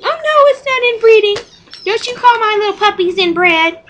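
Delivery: high-pitched mimicked objection; mock indignant protest. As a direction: imitate someone offended, way up high. Retold indignant reply about inbreeding.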